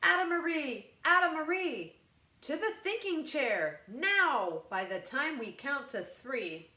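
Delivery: loud, high exasperated telling-off; scolding parents. A narrator's reading. Frustrated parents order Ada to the thinking chair, loud scolding. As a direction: send her to the thinking chair, fed up.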